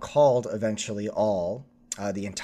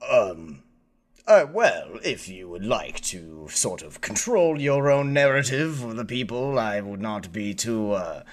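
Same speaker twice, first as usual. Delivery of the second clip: smarmy Chancellor. Acted. Chancellor answers the player.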